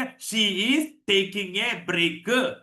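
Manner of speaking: "she is taking a break" word by word; slow, unlinked "she is taking a break"; local learner pronunciation. Shown as a demonstration. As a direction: spell out "is" and "break" separately, slowly. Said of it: "നമ്മൾ പറയുക".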